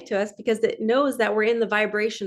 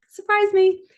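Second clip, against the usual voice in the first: even higher and louder, thrown open; ecstatic cry; 11 semitones higher, 5 dB louder than usual. Pretend. Vlogger crying out her mantra to the universe, louder and higher. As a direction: fling the words up joyfully. Repeat of mantra, rising further.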